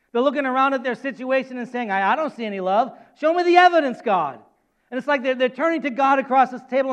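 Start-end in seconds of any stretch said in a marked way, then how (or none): 1.9-4.4 acted challenge, rising to a loud demand; doubting, pushy challenge. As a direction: demand proof from God. Acted doubters demanding proof of God.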